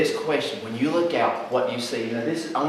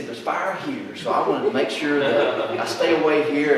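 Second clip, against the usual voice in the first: calm, casual reasoning; laid back. Acted. Brother sizing up a house fire, laid back. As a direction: think it through without alarm. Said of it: "he's just so laid back".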